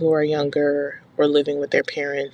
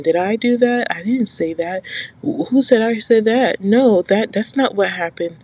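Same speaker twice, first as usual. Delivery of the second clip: higher, protesting innocence in a put-on imitation; mock indignant denial; 4 semitones higher than usual. Mimicking a gaslighting mother to viewers, mock indignant denial. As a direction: imitate someone acting wrongly accused.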